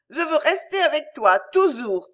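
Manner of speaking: put-on high little girl's voice on the verge of tears; close to sobbing. A narrator's reading. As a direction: plead like a child about to cry. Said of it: "d'une voix que l'on sentait prête à sangloter". (au bord des sanglots)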